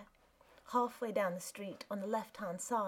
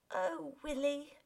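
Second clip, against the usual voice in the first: stunned cry; 7 semitones higher than usual. Acted. Wife recognised on the street.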